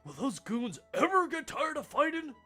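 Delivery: exasperated student voice. Acted.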